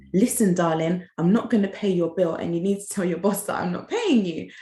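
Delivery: touch of a smug "listen, darling"; condescending attitude. Retold or imitated. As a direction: lightly imitate his patronising tone. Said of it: "he said it with so much attitude".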